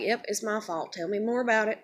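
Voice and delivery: smart-ass fake agreement; sarcastic. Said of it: "I was a smart ass".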